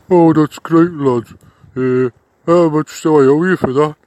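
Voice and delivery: loud, hearty thanks; relieved gratitude. Acted. Client thanking the detective after the struggle, loud relief. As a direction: call it out with relief.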